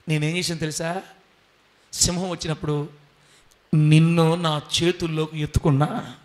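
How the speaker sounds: lightly voiced Lord answering his son; a hint of tender divine reply; Jesus speaking.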